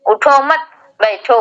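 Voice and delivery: "उठो मत" run together, slight break, then "बैठो"; pause after मत. Shown as a demonstration. Teacher's misleading order to a student, pausing after "मत". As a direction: break the phrase after "मत", leaving "बैठो" on its own. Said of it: "पे उसने सांस तोड़ दी".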